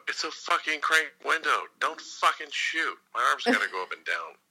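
high, loud yell, slowed on the swearing; yelling out the window. Retold or imitated. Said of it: "I yelled out the window".

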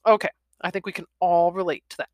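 usual speaking voice

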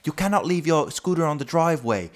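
high-pitched posh British grumbling; mock a posh Englishman complaining; shrill posh English. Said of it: "puhuu silleen tosi semmoisella kimeellä englannilla".

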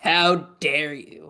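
slow, drawn-out mock reproach; mock indignation. Co-host chiding whoever is listening right now, mock indignant. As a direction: scold them slowly, playing at outrage.

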